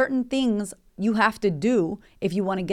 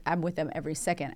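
normal talking voice

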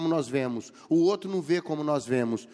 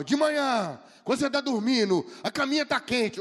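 lightly raised, dreamy teacher voice; teacher's storytelling voice; 6 semitones higher than usual. Retold or imitated. Preacher imitating his old teacher Milton, mildly raised and dreamy. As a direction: paint the cozy bed like a storyteller. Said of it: "ele falava".

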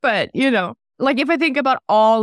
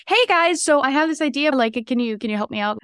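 higher-voiced eager door-to-door pitch; 5 semitones higher than usual. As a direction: imitate a hopeful pitch to strangers. Acted door-to-door pitch to manufacturers.

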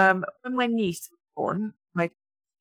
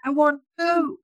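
high, loud toddler scream, acted out; screaming nephew; 10 semitones higher, 4 dB louder, much slower than usual. Aunt retelling her nephew's restaurant meltdown, mock toddler screaming. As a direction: imitate a small child yelling a demand. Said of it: "carried out from a very crowded restaurant screaming".

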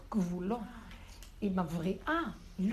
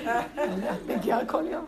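slow, amused repeat; laughing repeat; 6 dB louder, slower than usual. Retold or imitated. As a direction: savour the line with a laugh.

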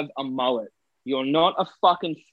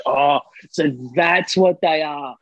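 surprised realization; 3 dB louder, slower than usual. Retold or imitated. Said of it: "She's like".

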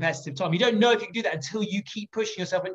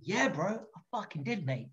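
mock bragging; 2 semitones higher, 10 dB quieter than usual. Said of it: "And I'm like".

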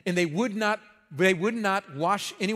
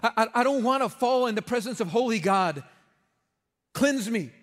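higher, hurried pleading; frantic blurting; 4 semitones higher than usual. Retold or imitated. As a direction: Peter blurts in panic, begging to be washed. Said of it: "he blurts out what Peter would blurt out".

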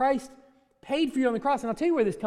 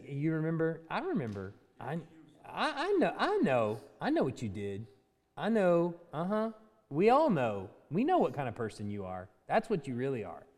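low, soft taunting accuser; accusing inner voice; 5 semitones lower, 6 dB quieter than usual. Acted. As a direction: whisper guilt back at them like a sly accuser. Voice of the accuser in ears.

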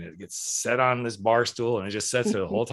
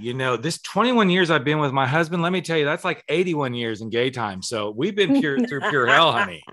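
sarcastic. Retold or imitated. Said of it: "Your sarcasm. It's so thick".

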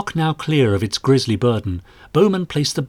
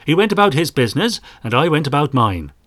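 Irish trader; 4 semitones higher, 3 dB louder than usual. Acted. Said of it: "O'Sheehy sniffed".

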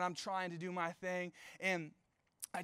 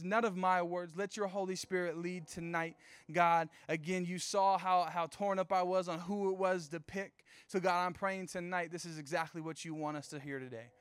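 spoken prayer. Acted. Leads the closing prayer.

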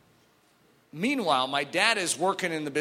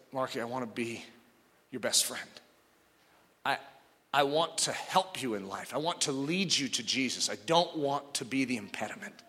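tearful plea; 3 semitones lower, 4 dB quieter than usual. Retold or imitated. Speaker crying to brother.

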